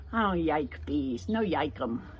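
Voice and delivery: put-on mild toddler whine about bees; baby talk. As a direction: pout like a toddler.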